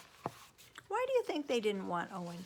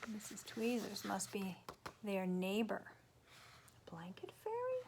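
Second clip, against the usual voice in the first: curious whisper; 4 dB quieter than usual. Acted. Reader wonders aloud to child.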